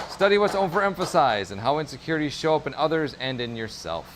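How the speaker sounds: measured narrator reading with lilting, falling phrases. Shown as a demonstration. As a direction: read it out like a narrator. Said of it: "read this in my most narratorly voice".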